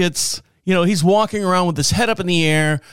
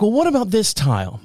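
imitated patient wife, higher pitched; nicely coaxing, lightly put on; polite, nice wife; 5 semitones higher, faster than usual. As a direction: mimic a wife politely seeking an opinion. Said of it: "being as polite and nice as possible".

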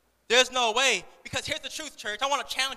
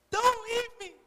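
very high mock toddler wail; wailing little girl; 12 semitones higher, 4 dB louder, slower than usual. Toddler begging her working mom to stay, mock high wail. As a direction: plead shrilly as an imitated toddler. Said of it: "there was a little girl".

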